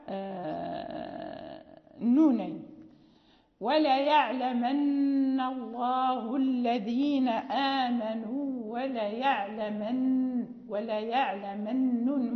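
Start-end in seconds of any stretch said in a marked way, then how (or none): 3.6-12.3 slow recitation with doubled nun. Shown as a demonstration. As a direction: recite وليعلمن slowly, holding the doubled n. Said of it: "مشددة".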